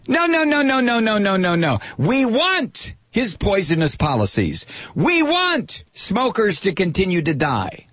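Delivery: high, mocking chant of no, no, no; mocking right-winger. Host mocking right-wingers refusing everything, in a high sing-song voice. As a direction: parody the right-wingers shaking their heads.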